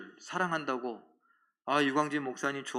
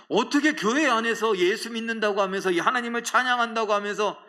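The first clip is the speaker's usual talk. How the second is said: loud, raised sermon voice; impassioned pulpit reproach; forceful preaching; 5 semitones higher, 6 dB louder than usual. Real, not acted. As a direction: press the congregation with full force.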